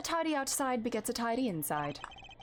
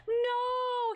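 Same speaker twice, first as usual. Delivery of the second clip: shocked cry; 12 semitones higher than usual. Acted. Character gasps in shock.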